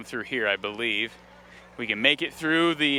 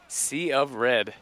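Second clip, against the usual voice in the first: Will Keeps style; 3 semitones lower, much slower than usual. Retold or imitated. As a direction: linger on it like a song hook. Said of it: "our friend Will Keeps would say".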